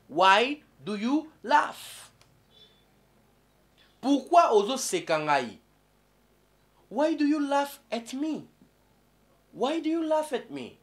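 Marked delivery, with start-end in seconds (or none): 0.1-2.1 why do you laugh drawn out, you stressed; teacher repeating the question slowly; slow model question. Shown as a demonstration. 6.9-10.8 higher, acted why do you laugh at me; teacher hamming up a hurt asker; mock offended question. Acting mocked person.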